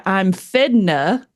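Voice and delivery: "fidna" said as one slurred word; Texan "fidna", consonants merged; jumbled Texan contraction. Shown as a demonstration. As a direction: slowly show "fidna", fixing to run together. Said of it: "jumble their words together".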